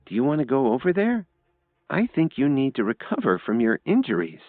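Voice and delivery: put-on high, concerned girl's voice; anxious young woman; worried Lily. A narrator's reading. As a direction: fret over him in a high voice. Lily worries about Kevin.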